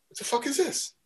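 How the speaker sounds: high, shocked what-the-fuck; baffled outburst. Retold or imitated. Jocko handed money back, high startled disbelief.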